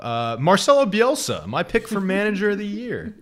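mildly contrarian, lifting on the final pick; contrarian vibe. Retold or imitated. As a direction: announce an unpopular pick with relish. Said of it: "a little bit of a contrarian vibe".

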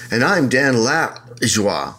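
half-speed, drawn-out "Dan Lajoie"; mock pretentious name. Co-host mimicking the host saying his name, mock pretentious "Lajoie". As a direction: stretch "Lajoie" out slowly and affectedly. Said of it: "the way you said your name".

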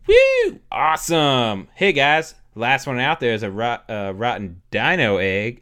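hyped shout. Retold or imitated. Player cheering friends to race outside, loud and excited. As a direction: pump up the group. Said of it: "And Nick Pavetta goes".

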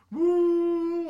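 loud, high whoop of joy; retold cheer. Friend whoops on hearing he graduated, loud high cheer. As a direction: whoop like you just passed. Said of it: "he's like".

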